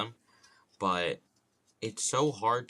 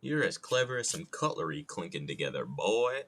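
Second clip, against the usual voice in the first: Southern rooster put-down; folksy Southern bluster, rising on the last word; Foghorn Leghorn. Acted. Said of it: "doing that impression".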